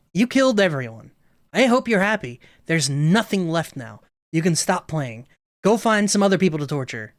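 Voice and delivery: bitter Monika. Acted. Monika telling the player to leave, bitter. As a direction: spit it out, hurt and angry.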